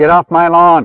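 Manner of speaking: really loud, full-volume, high-pitched shout. Testing a recording by saying the line again: really loud. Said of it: "If I do it really loud".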